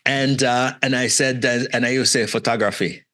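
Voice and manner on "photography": put-on "photography" said the old accented way, falling; old pronunciation. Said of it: "using my best Canadian accent".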